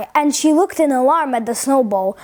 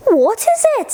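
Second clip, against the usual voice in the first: puzzled crowd; 8 semitones higher than usual. A narrator's reading. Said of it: "said everyone".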